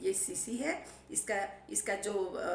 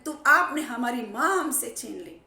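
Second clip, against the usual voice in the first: crying while speaking; 8 dB louder than usual. Retold or imitated. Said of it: "रो रो के बोल रहे हैं".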